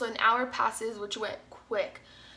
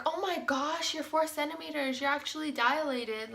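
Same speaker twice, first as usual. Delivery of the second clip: higher-pitched retold amazement; astonished nurse, imitated; 4 semitones higher than usual. Nurse finding the patient actually dilated, mock astonishment. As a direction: voice the nurse's surprise, pitched up, easing down.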